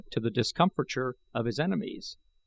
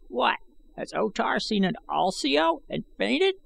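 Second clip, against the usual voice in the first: broad sarcasm; 10 semitones higher than usual. A narrator's reading. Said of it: "with broad sarcasm".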